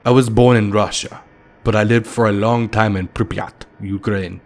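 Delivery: put-on lightly held Russian accent; an old Russian telling where he lived; a hint of a Russian accent. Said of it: "in a very heavy Russian accent".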